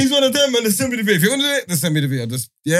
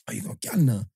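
mock shocked yell; 7 semitones lower, 7 dB quieter than usual. Mocking friend's shocked reply.

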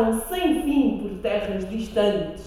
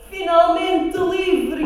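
high, loud and very slow; joyful shout; 6 semitones higher, 4 dB louder, much slower than usual. Acted. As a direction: cry out in relief. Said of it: "gritava a Maria". (grito de alegria)

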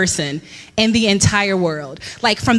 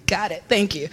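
awkward thanks; 4 semitones lower, 6 dB quieter than usual. Retold or imitated. Retold weary thanks to greeters.

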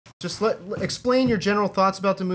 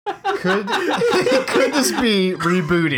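laughing; 5 semitones higher, 5 dB louder, much slower than usual. Real, not acted. Host puts a question to everyone, laughing. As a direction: question broken up by real laughter.

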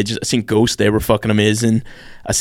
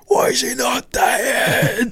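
much higher, slow, disbelieving cry; baffled enemy soldiers; 13 semitones higher, much slower than usual. Retold or imitated. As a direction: squeal it like a panicked soldier who can't believe it. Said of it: "And they're like".

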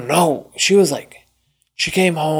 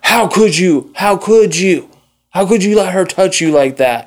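higher, scolding retold reproach; angry grandma; 5 semitones higher than usual. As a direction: imitate a grandmother blaming the child. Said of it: "more mad at me".

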